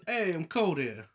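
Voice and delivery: mock New Jersey accent; a short line in put-on New Jersey. Host clowning after being asked about the accent, New Jersey accent. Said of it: "slightly New Jersey".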